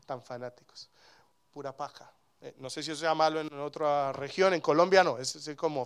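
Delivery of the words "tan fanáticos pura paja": soft, scornful mockery; mocking scoffers. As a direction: sneer at them under your breath. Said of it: "y dice". (burla despectiva, en voz baja)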